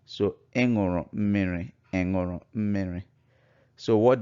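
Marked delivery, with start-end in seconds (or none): 0.5-1.7 "Ị ṅụrụ mmiri" met stijgende vraagtoon; Igbo question tone. Shown as a demonstration. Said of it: "the tone". 1.9-3.0 "ị ṅụrụ mmiri" met dalende toon, als feit; Igbo statement tone. Shown as a demonstration. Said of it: "the tone".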